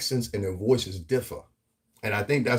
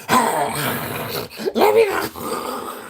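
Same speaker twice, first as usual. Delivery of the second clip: slow, higher, whimpering plea; drawn-out fake cry; mock crying plea; 10 semitones higher, 4 dB louder, much slower than usual. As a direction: beg to be let go, mock-crying. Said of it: "took a bite out of Boyce Watkins' neck like".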